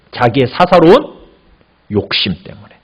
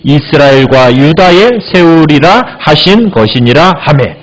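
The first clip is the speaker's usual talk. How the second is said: slow, measured reading of the verse; scripture reading; 3 semitones lower than usual. Acted. Preacher reads scripture slowly to the congregation. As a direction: read the Bible passage aloud to the congregation.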